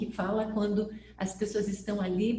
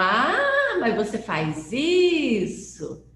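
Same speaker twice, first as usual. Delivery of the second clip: an amazed catch of the secret; surprised discovery; 2 semitones higher, 6 dB louder, slower than usual. Retold or imitated. Grandchild catches grandma in a surprised, slowed question.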